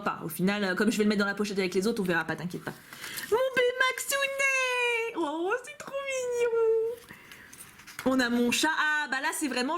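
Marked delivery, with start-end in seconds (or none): 3.3-6.8 high, slow, teary squeal of delight; gushing over the Baymax card in a high, teary squeal; overwhelmed cute squeal. Real, not acted. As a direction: squeak it out like the card just broke your heart. Gushes over Baymax drawing.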